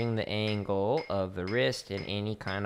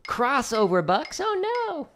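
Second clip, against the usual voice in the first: mock dread; 4 dB louder, slower than usual. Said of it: "oh no".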